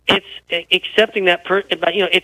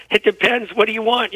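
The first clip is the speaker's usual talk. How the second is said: higher, lightly amused retort; laughing and smiling; 4 semitones higher than usual. Retold or imitated. Coach answering an irritated parent at practice, laughing and smiling. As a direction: answer through a grin, a chuckle close behind. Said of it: "I'm laughing and smiling".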